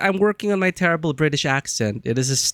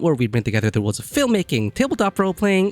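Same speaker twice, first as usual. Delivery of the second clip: put-on puppet Karthia in a mild, half-hearted British accent; a hint of a bad British accent, mostly own voice; terrible British accent. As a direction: puppet host chatting to the stream in a faint mock British accent. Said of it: "That was my terrible British accent for Karthia".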